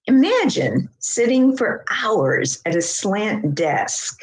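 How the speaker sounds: measured, savoured poem reading; deliberate poetry recital with slight pauses. Acted. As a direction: read it as a poem, phrase by phrase. Reads found poem aloud.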